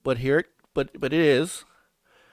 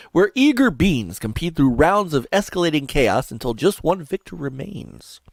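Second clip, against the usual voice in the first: radio voice. Shown as a demonstration. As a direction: give it a touch of promo-read drama, dropping off on the last words. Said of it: "I'll use my radio voice".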